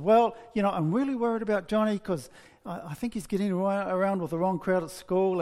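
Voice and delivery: mildly hammed-up confiding; eager unburdening. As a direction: let the worry pour out at last. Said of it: "she's been dying to tell somebody".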